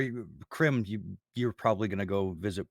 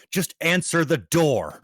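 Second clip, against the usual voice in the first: female voice; 6 semitones higher, 5 dB louder than usual. Acted. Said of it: "you hear a female voice from inside say".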